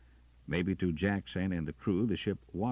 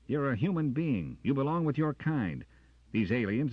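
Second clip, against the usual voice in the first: much higher, louder pleading; urgent plea; 10 semitones higher, 7 dB louder than usual. Acted. Jackson urging Carter, high and loud. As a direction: insist on human loyalty.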